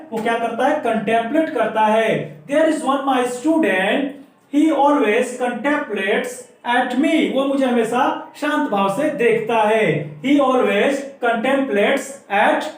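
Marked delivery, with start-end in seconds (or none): 2.5-7.2 very slow, word by word; slow dictation. Shown as a demonstration. Teacher dictating an example for students to copy. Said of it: "मैंने आप example बोल दिया है, आप सुन के लिख भी सकते हैं". 10.2-12.7 very slow, word by word; slow dictation. Shown as a demonstration. Teacher dictating an example for students to copy. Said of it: "आप सुन के लिख भी सकते हैं".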